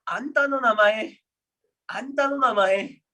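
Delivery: "Anta no namae" slow, every syllable clear; slow model phrase. Shown as a demonstration. Teacher repeating the clip line for students, slow and clear. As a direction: spell out "Anta no namae" slowly. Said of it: "dia bilangnya Anta no namae".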